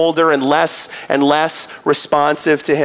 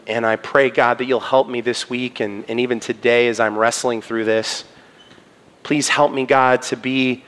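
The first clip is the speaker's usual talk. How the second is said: prayer; 3 semitones lower than usual. Real, not acted. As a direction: pray humbly to close the service. Closing prayer.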